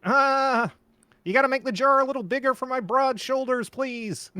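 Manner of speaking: put-on high, creaky old puppet man; cranky old man puppet voice; old Muppet voice. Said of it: "sound like that one Marley from the Muppet".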